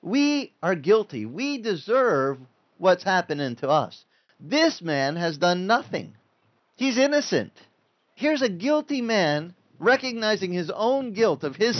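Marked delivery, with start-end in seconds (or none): 0.0-7.5 a lightly voiced thief scolding his neighbour, then confessing; repentant thief rebuking. Other thief rebukes the mocking thief, lightly voiced and slow. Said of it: "And the other thief says".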